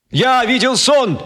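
slow, high proclaiming cry; cried out. Acted. Speaker crying out to the crowd, slow high proclamation. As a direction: ring it out like an orator. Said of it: "вдруг крикнул Мартин Кеннинг".

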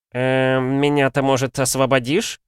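mildly fretful captive; worried. Acted. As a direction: ask anxiously, afraid of being left. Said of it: "заволновался Ксарберус".

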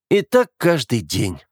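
slow, tired sigh of a line; worn out by her again; weary. Acted. Brother, weary of his sister, mildly tired. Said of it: "устало выдал Оливер".

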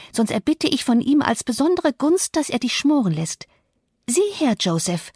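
put-on scornful young witch. Young mistress rebukes the old servant for invoking the devil, menacingly. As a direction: threaten him like a vengeful little witch.

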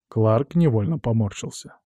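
ordinary delivery

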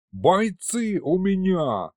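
high, slow demon roar on бойцы; roaring correction. Acted. Aristofan roaring back at the storekeeper. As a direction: roar it, offended for his fighters. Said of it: "взревел Аристофан".

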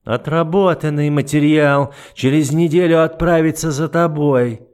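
lightly voiced icy duke, mocking; an understated sneer; a hint of the cold duke. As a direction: toy with her calmly. The duke's cold verdict.

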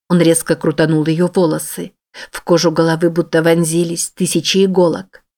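usual speaking voice

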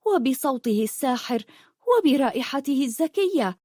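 a hint of a girl in love with the sea; dreamy young girl. Rafif's long speech about sea.

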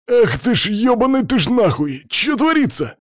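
high-pitched squealing panic; shrieking hamster. A narrator's reading. Hamster loses all control at the sight, shrieking. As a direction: screech the curses in a squeaky creature voice. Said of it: "снова заверещал фиолетовый".

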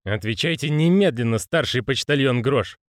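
"Отвечайте немедленно" firm and official, slowing on "почтальон"; measured, official "Отвечайте немедленно, старший почтальон Грош"; formal command. Acted. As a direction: give it as a formal rank order. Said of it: "Навыки общения".

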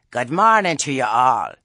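loud, over-pleasant greeting; big cheery hello with a strange edge; nice, with an edge. A narrator's reading. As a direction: call out sweetly to the whole group. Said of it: "It sounded nice".

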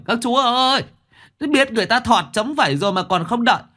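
high, loud terrified wail, rushed; limping man left behind, wailing in fear to his companions; frightened wailing. A narrator's reading. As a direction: shriek it out in panic, begging them to wait. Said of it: "sợ mà gào lên".

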